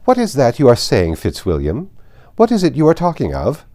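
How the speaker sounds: loud, high, imperious demand; calling out. A narrator's reading. Lady Catherine calling out loudly to her nephew. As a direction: call across the room, commanding. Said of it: "she did not scruple to call out".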